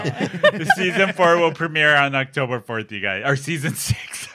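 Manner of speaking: tipsy rambling. Real, not acted. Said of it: "I'm so drunk right now".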